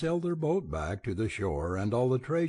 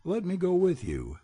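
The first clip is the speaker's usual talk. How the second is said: pheasant voice; 9 semitones higher than usual. A narrator's reading. Pheasant asks to join.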